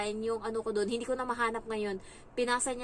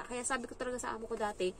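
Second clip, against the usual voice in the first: ordinary delivery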